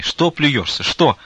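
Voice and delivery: put-on furious loud old woman; yelling. A narrator's reading. Old nun yells at Vasily for spitting, furious. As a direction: bawl him out across the room. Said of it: "закричала она на всю келарню".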